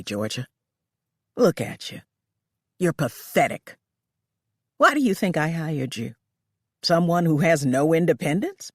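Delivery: a hint of an employer belittling her; lightly voiced cold boss.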